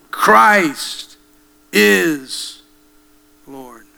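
rising shout on Christ that falls off on Lord; preaching cry. Acted. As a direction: proclaim Christ is Lord with full force. Preacher repeats the confession.

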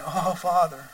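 softly imitating a feeble whimper; mock whimper. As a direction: plead it small and soft, a meek whimper. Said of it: "like a whisper or like a whimper".

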